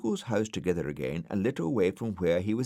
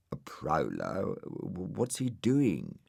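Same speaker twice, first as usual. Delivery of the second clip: frightened stammer. Acted. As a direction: stutter with fear.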